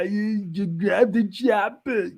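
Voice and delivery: playful slow command to grab the chopper; mock urging. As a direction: stretch it out like a hype man. Urging repeated, chopper gag.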